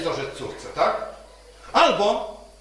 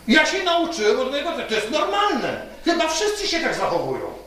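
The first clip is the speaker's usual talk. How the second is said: retold self-justifying father, higher pitched; raised, mildly indignant defence; defensive father; 6 semitones higher than usual. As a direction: act out a father insisting on his innocence. Father defends himself in retold quarrel.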